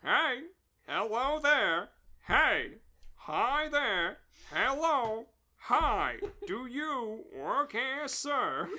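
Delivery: a hint of a pestering inspector; nasal inspector voice. The inspector poking the sleeper, lightly voiced and nasal. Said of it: "a nasally voice started speaking".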